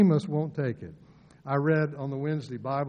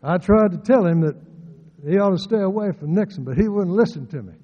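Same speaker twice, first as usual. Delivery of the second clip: loud, higher, fast, lips hardly moving; mouth barely open; 4 semitones higher, 8 dB louder, faster than usual. Retold or imitated. Preacher mimicking how Uncle Bill spoke, mouth almost shut. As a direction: push it out through a nearly closed mouth. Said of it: "didn't need to open his mouth very much when he spoke".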